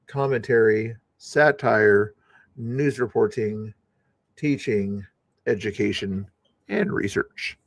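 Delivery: formally recited fair-use disclaimer; disclaimer read-out. Acted. Host reciting a required YouTube disclaimer, formal read-out. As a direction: recite it item by item, with pauses between.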